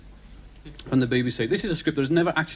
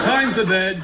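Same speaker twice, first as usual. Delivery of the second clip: drawn, raised catchphrase; Zebedee's sign-off; 3 semitones higher, 4 dB louder, slower than usual. Acted. Zebedee ending the programme, mock children's sign-off.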